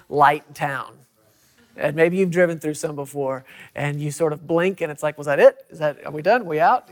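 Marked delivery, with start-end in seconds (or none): 5.1-6.9 quick puzzled questions, rising at the ends; imitating a driver who blinked and missed it; puzzled questioning. Mimics puzzled driver passing town.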